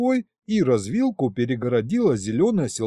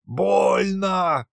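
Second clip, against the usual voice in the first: mild yell of pain; 5 semitones higher than usual. A narrator's reading. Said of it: "заорал колдун".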